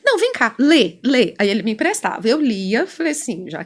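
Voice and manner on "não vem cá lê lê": insistent client. Retold or imitated. Client urging his therapist to read the phone, insistent. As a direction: press the listener to read, lightly acted.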